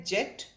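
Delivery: जेट with a quick short e; short e in jet. Shown as a demonstration. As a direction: clip the vowel in जेट. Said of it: "short sound है". (छोटी ध्वनि में जेट)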